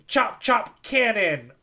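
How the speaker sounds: hammed-up Buggy yelling his move; mock attack call. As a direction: call the attack like an anime villain. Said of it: "Buggy goes".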